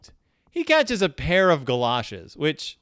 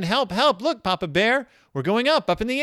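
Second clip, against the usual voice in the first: mock cries for help; 6 semitones higher than usual. Cubs cry out in story.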